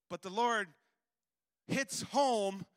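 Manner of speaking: loud preaching build with pauses; full-voice pulpit emphasis. Real, not acted. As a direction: drive each phrase home to the church. Preaching climax about the Lord.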